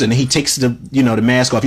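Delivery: normal talking voice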